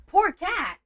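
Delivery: high, loud mock sympathy; mock pity. Crafter mocking her partner's pity for the cat, high mock sympathy. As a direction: imitate someone pitying the cat. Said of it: "There ain't nothing poor about that cat".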